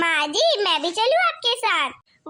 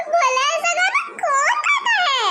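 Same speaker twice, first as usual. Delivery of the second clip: laughing mockery; 5 semitones higher than usual. Mocking the bride's song.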